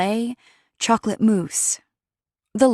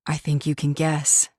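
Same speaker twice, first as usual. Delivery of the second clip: out of breath. A narrator's reading. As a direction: say it nearly out of breath. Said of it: "sounding nearly out of breath".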